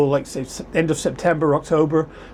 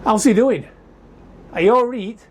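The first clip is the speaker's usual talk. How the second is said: Yorkshire greeting; 7 semitones higher than usual. Retold or imitated. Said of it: "and they say".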